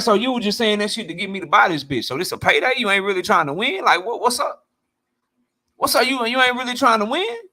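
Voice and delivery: incredulous, accusing questions; disbelieving fan. Retold or imitated. Fan confronting a fighter who didn't try, incredulous. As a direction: call out the fighter for a fake effort. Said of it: "I'm be looking at you like".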